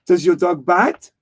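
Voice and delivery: mock-French inspector asking a question; put-on French accent; Clouseau. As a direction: ask it as a comic French detective. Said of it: "'Cause he goes".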